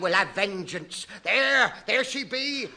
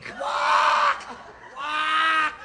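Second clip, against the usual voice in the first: duck quack; 6 semitones higher, much slower than usual. Acted. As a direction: honk it like a giant duck.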